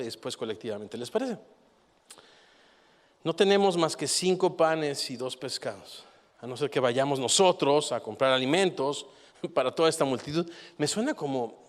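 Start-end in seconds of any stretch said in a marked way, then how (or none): 3.2-10.5 sarcastic disciples. Acted. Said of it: "una conversación sarcástica".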